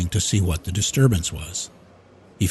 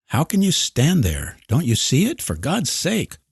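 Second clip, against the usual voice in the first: frantic disbelief; 8 semitones higher than usual. A narrator's reading. Lois frantic, others don't see.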